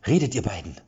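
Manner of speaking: a mild half-yell of command; half-shouting. A narrator's reading. Erik standing over the two mercenaries, mild half-shout. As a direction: bark at them only halfway. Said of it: "schrie er sie halb an".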